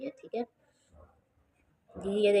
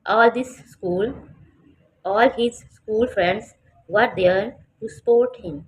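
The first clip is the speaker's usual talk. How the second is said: louder, very slow and drawn out; slow loud reading; 3 semitones higher, 7 dB louder, much slower than usual. Shown as a demonstration. Teacher reading aloud to the class, loud and very slow. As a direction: project it to the back of the class. Reads the paragraph loudly and slowly.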